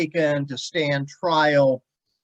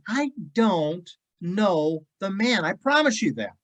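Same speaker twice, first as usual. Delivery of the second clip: mock vehement denial; 5 semitones higher than usual. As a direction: swear it like a cornered man. Peter swears an oath.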